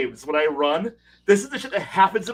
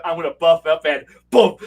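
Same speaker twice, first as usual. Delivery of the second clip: fighter's war cry; 6 dB louder than usual. Retold or imitated. Acting out the fighter's entrance.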